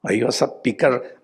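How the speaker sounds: ordinary talk, nothing marked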